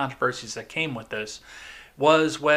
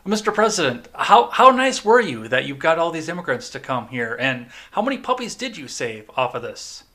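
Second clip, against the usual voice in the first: mock Southern accent; 2 semitones higher, 5 dB louder than usual. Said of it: "Scarlett O'Hara Southern accent".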